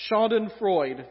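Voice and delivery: Southern-accented Schadenfreude; German word in a Southern accent; Southern English. Shown as a demonstration. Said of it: "doesn't sound right in Southern English".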